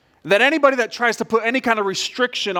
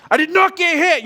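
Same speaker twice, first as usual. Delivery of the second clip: whiny protest; 9 semitones higher, 5 dB louder than usual. Retold or imitated. Boys mouthing off at refs.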